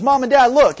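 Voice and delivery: put-on high, loud eager child showing off; excited kid. Boy shows parents his perfect paper, excited shout. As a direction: call it out like a proud kid running home. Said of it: "so he comes home and says".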